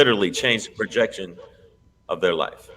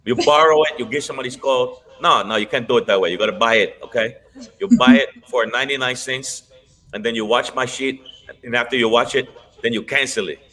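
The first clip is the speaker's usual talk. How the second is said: put-on Puerto Rican accent; 3 semitones higher than usual. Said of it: "a horrible impression of a Puerto Rican".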